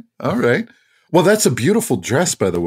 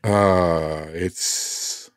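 hushed reveal; 7 semitones lower, 7 dB quieter, much slower than usual. Acted. Dramatic fabric guess.

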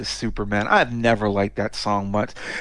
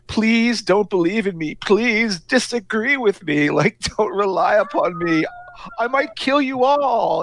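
higher, lilting sung-spoken quote as the menacing machine; mock computer voice; 10 semitones higher, slower than usual. Podcast host voicing the computer in the song, sing-song. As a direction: play the supercomputer crooning its threat. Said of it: "from the point of view of the computer singing".

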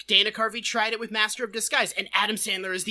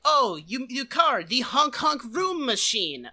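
lightly put-on bewildered foreigner; mock Pistachio voice; 2 semitones higher than usual. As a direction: imitate a weird traveler baffled by everything. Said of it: "he talks like a weird interdimensional traveler".

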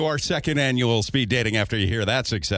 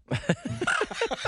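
magpie chatter. Shown as a demonstration. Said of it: "similar to a crow".

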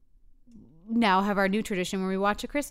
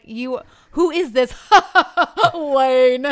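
laughing disbelief; 6 semitones higher, 13 dB louder, slower than usual. Retold or imitated. Wife mocking, laughing.

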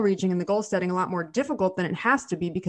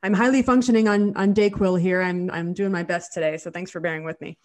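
stuffy nasal cold voice; nasal, congested from a cold. Real, not acted. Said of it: "so I apologize if I sound a little nasally".

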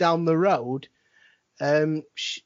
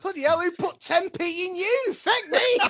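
1 excited; 12 semitones higher than usual. Real, not acted. Laughing at friend's rant.

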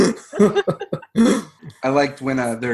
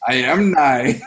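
laughing; 5 dB louder, slower than usual. Retold or imitated. Quoting Dwight, laughing.

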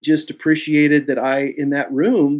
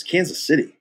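higher, judgmental questioning of the name; judgmental echo; 4 semitones higher than usual. Retold or imitated. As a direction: echo it back as if disapproving. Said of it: "judgmental about it".

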